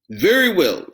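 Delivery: troll reasoning to himself; scheming troll. Acted. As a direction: plot the catch.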